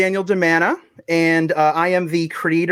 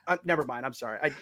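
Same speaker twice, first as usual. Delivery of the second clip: level drops away suddenly, fast and faint; uneven volume; 6 dB quieter, faster than usual. Real, not acted. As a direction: audio cutting out, words trailing off. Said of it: "Sorry about the audio levels".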